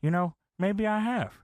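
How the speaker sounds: retold sad appeal to a friend; a touch of wounded earnestness. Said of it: "J R's sad here".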